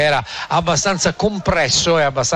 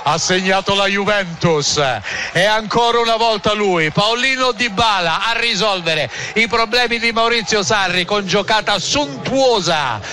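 raised, excited goal recap; breathless italian goal commentary; 4 semitones higher than usual. Real, not acted. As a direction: keep the goal energy up.

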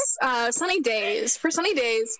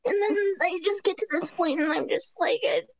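higher, drowsy and yawning; a tired little pony, higher than usual; sleepy yawning voice; 6 semitones higher than usual. Shown as a demonstration. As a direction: yawn through it like you want to go to bed. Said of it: "kinda yawn".

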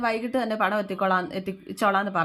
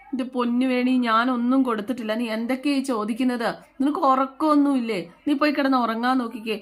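raised, higher exasperated voice; acted annoyance; 5 semitones higher, 4 dB louder than usual. Husband brushing off wife's midnight questioning, acted annoyance. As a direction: act out a fed-up husband, pitched up. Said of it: "ആദർശ് ദേഷ്യപ്പെട്ട്".

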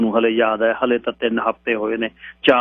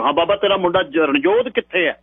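police threat; 6 semitones higher than usual. A narrator's reading. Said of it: "ਥਾਣੇਦਾਰ ਨੇ ਪੁਲਸੀਆ ਦਬਕ".

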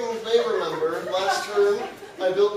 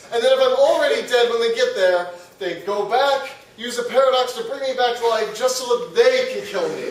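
Hitler voice; 5 semitones higher, 7 dB louder than usual. Retold or imitated. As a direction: whine it as a fed-up Hitler, much louder. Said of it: "This is my Hitler voice".

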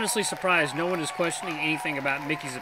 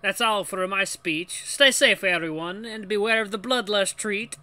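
raised mock French accent; failed French; 4 semitones higher, 5 dB louder than usual. The speaker closing his speech to everyone, fake French accent. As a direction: sign off in a bad French accent. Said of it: "I'm gonna keep doing it".

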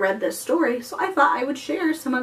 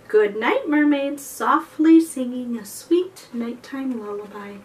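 put-on reading to children. Librarian reading a bedtime book to kids, lively greetings. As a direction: greet each mermaid warmly for the little listeners. Reads picture book aloud.

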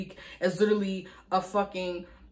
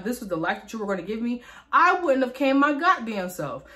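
going off; 3 semitones higher than usual. Retold or imitated. Daughter going off about her mother to a friend, angry rant. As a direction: build from mild complaint to a raised, emphatic outburst. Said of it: "I was going off".

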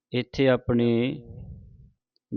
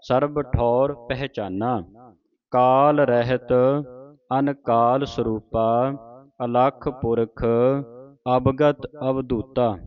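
slow, measured teaching recitation; scripture recitation; slower than usual. Shown as a demonstration. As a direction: draw each word out for students to follow. Reads scripture for students to follow.

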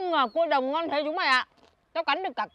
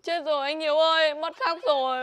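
mếu máo; 4 semitones higher than usual. Acted. Em gái hoảng vì mất thóc.

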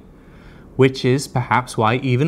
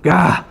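frustrated gah; 5 semitones higher, 5 dB louder than usual. Real, not acted. Exasperated at hack count.

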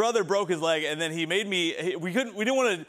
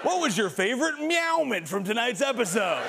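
cheesy brand tweet; 5 semitones higher than usual. Retold or imitated. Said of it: "I played it straight".

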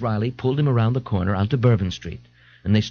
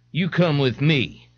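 waning confidence; 4 semitones higher, slower than usual. Acted. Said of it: "with waning self-confidence".

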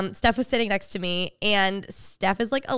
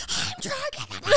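put-on much higher, softer whiny drunk wail; imitating drunk fan; 7 dB quieter than usual. Retelling a TikTok fan's line, high soft drunken wail. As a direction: wail it like a tipsy crying fan. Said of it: "he's going".

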